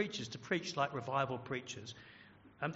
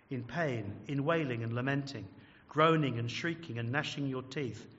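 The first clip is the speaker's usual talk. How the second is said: sermon reading. Acted. Reads revival sermon paragraph aloud.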